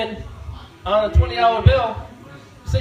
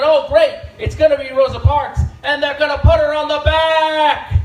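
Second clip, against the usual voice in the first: sarcastic quip; 5 semitones higher, 3 dB louder than usual. Retold or imitated. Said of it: "and I said".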